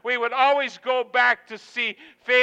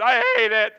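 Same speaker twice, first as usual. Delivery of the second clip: wife's exact inflection. Retold or imitated. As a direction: repeat the wife's line with her same tone. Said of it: "The direct quote with the same inflection".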